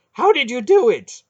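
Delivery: high, loud, stunned cry. Acted. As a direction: blurt it out, still reeling. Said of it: "his face stunned".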